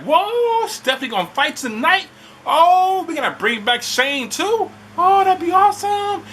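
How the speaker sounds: high, excited fan squeal. Retold or imitated. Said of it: "I like".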